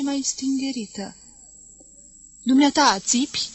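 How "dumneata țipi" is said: very serious question. Acted. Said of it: "o întrebă cealaltă tânără femeie foarte serios".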